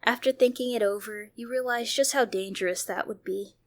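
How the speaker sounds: steady second-person story reading; measured storyteller reading a text game; story narration. A narrator's reading. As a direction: read the game's story out to the viewer.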